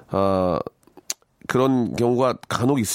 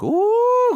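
very high, loud drawn-out "ooh"; mock amazed whoop; 5 dB louder than usual. Shopping host showing off juicy meat, whooping. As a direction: imitate a thrilled gasp over sizzling food. Imitating excited home-shopping food display.

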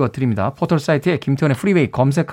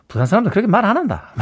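laughing Busan friend; 4 semitones higher, faster than usual. Retold or imitated. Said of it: "이러면서 이야기를 하세요".

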